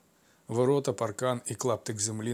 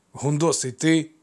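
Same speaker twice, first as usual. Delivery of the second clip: surprised recognition; 5 semitones higher, 8 dB louder, slower than usual. Acted. Amphitryon recognizes the man.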